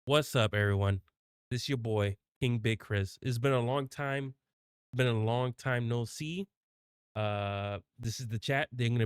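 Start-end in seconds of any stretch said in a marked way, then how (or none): 0.0-6.5 hype intro. Shown as a demonstration. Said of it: "Should I put in my full name?".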